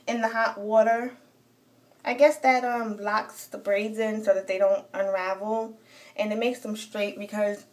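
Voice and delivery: talking while chewing gum. Real, not acted. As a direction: gum in the mouth while speaking. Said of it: "I got this gum in my mouth".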